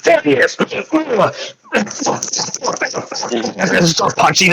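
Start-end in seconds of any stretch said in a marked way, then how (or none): 0.0-0.5 high-pitched sudden cry; alarmed call-out. Acted. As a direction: call out the target like a guard. Guards spot him, call out.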